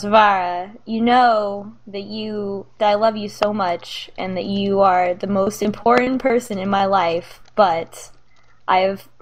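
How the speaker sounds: halting, mildly awkward fatherly talk; awkward sincerity. Acted. Dad telling daughter he worries about her, awkward and halting. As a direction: feel your way haltingly through a heartfelt talk. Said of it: "he's a little awkward about saying this".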